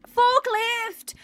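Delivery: high, loud exclamation; excited call-out. Real, not acted. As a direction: blurt it out on spotting something. Spots a forklift in the game.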